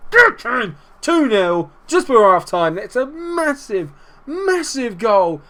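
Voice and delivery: high, loud cries stretching into a drawn-out squeal; jubilant celebration. Real, not acted. Gamer celebrating two nil before half time, jubilant. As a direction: strain it out in real elation.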